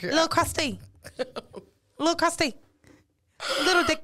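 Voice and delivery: hammed-up Asian-accented English; mock Asian accent. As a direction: put on a stereotyped Asian accent. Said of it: "This how the girls be".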